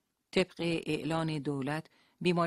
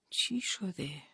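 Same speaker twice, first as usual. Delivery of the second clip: moaning; 4 semitones higher, much slower than usual. Acted. Leila in labour asks faintly, moaning. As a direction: ask through the pain, barely. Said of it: "با صدای نالان".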